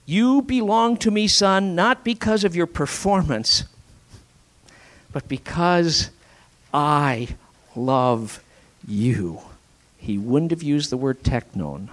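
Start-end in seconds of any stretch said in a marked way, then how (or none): 0.0-9.4 heartfelt father. Acted. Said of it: "he opens his heart".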